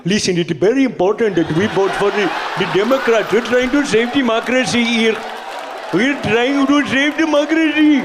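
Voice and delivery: a hint of a Southern campaigner pleading to vote; Southern stump speech. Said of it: "going like".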